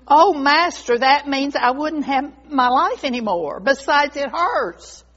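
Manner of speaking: a touch of wounded dismay; alarmed protest. Acted. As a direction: protest to your master in mild alarm. Bamboo protests being cut down.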